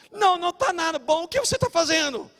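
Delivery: high, loud scolding retort; indignant doorman. Retold or imitated. Doorman refusing a friendly greeting, indignant and high. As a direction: imitate a doorman demanding an explanation. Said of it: "o porteiro".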